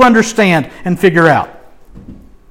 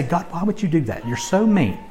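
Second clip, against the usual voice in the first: mock complaint; 3 semitones lower, 9 dB quieter than usual. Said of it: "look at God and say".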